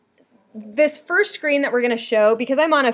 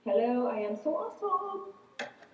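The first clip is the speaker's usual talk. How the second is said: echo effect; 13 dB quieter than usual. Shown as a demonstration. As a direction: voice with an echoey effect. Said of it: "This is what it sounds like".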